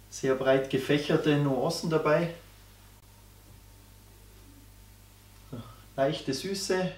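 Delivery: talking while sniffing spirit; speaking into a glass. Real, not acted. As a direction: voice near glass rim. Seen 0: Tasting glass held at nose and mouth during most words.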